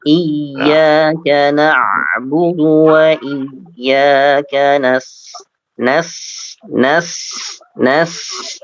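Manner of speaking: nas- with the s hissed; hissing sin. Shown as a demonstration. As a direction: stretch the hiss on nas-. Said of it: "Ingat huruf shafir, ada desis".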